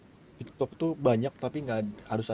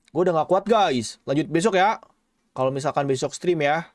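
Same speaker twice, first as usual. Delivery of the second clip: higher, louder tired whining; sleepy whine; 5 semitones higher, 5 dB louder than usual. Real, not acted. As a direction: complain you can't go on. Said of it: "Udah ngantuk banget gua".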